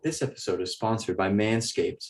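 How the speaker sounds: slightly subdued, soothing mock sponsor read; smooth, understated pretend ad. Podcast host trying out another pretend sponsor, soothing. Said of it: "That was such a soothing voice".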